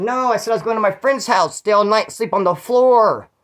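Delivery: defensive retort. Retold or imitated. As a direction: argue back at mom, stretching the final phrase. Retold argument with his mother.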